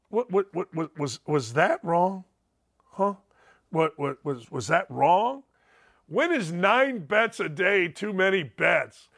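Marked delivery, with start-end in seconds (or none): 0.1-5.4 mock innocent. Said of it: "mock innocent question".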